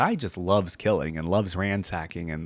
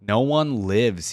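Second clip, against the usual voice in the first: muffled rasping knight; much slower than usual. Acted. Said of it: "His voice was muffled by the dread iron of his helm, like the corpse rasp".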